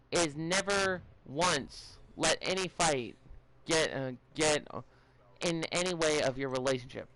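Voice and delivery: halting, stumbling over words; stuttering. Real, not acted. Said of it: "sorry if I'm stuttering".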